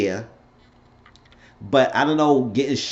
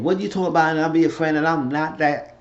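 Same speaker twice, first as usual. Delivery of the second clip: higher-pitched protest, not much louder; mock getting worked up; retelling someone getting loud; 5 semitones higher than usual. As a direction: imitate a heated objection. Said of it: "when he was starting getting loud and saying".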